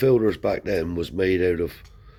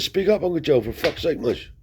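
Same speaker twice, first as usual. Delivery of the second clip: a much higher, louder "Speak up, Uncle Joe"; retold shout; 10 semitones higher, 4 dB louder than usual. Nephew on the phone shouting at his whispering uncle, high and loud. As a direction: snap at him to speak up. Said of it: "don't shout".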